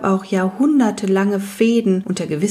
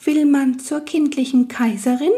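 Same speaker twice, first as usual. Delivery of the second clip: night goblin voice; 7 semitones higher than usual. Acted. Goblin asks.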